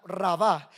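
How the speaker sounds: "rabá" stressed on the final á; stress on second syllable. Shown as a demonstration. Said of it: "con acento en la segunda".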